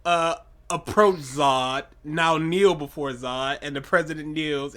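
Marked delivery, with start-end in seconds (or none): 0.7-3.6 slow commanding villain voice, lightly done; slow, imperious Zod command; dark lord. Retold or imitated. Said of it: "no, he says".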